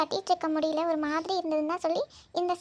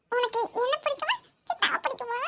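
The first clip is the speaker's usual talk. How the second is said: put-on child voice; 4 semitones higher than usual. Voicing child asking.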